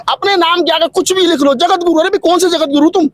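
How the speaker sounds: pitched high, scoffing and sarcastic; mock him like a fake title-holder; mocking ridicule. Real, not acted. Politician scoffing at the self-styled Jagat Guru, high mocking sarcasm.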